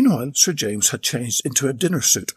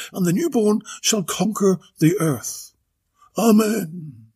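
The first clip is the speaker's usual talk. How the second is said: a lightly voiced, lofty duchess; grand duchess voice; 5 semitones higher than usual. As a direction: declaim like a pompous aristocrat. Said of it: "she boomed".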